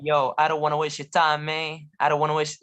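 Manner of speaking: imitated African American sing-song speech; playful take on African American intonation; African American accent. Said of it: "or African American".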